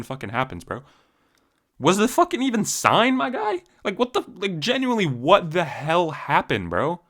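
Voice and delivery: fired-up rant at a fighter who pulled out; heated rant. Real, not acted. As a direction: vent at him in disbelief, voice climbing. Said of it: "I got heated there for a second".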